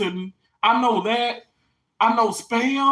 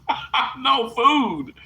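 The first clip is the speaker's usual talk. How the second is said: laughing; 3 semitones higher, much slower than usual. Real, not acted. Laughing after lazy-eye joke.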